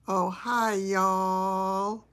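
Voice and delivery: stretched Southern "y'all" with a rise; Southern accent attempt. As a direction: try a friendly Southern greeting. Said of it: "Still not right".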